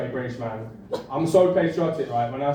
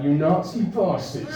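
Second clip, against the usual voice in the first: higher, drawn-out mock insult; acted-out jeer at the Germans, pitched up; mock outrage; 5 semitones higher, slower than usual. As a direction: throw out a slow, hammed-up insult. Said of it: "And we're like".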